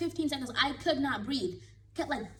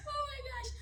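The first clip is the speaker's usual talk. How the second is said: high, soft, half crying laughter; laughing cry; 13 semitones higher, 6 dB quieter, faster than usual. Real, not acted. Recalling the fall to viewers, laugh-crying. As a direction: gasp it through laughter.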